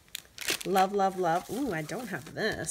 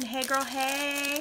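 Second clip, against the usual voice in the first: sassy greeting; 4 semitones higher, slower than usual. Pretend. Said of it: "That's what the pen says".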